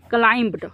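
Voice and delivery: क्लाइम्ब्ड with the b audible before the d; wrong pronunciation. Shown as a demonstration. Teacher showing what is wrong, b sounded in क्लाइम्ब्ड. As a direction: voice the silent b in क्लाइम्ब्ड. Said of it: "तो ये गलत है".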